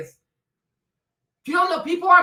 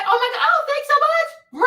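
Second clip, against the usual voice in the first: gushing thanks; 11 semitones higher, 3 dB louder than usual. Retold or imitated.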